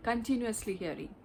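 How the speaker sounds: ordinary delivery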